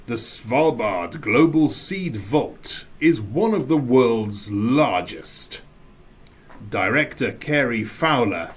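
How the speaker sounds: measured, deliberate dramatic reading; acting voice. Shown as a demonstration. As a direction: read it out like a documentary narrator. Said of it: "that's my acting voice".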